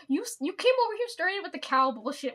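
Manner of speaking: loud, high mock outrage; laughing protest. Protesting to a coworker who threatens her with water, loud mock outrage. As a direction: push back, half laughing.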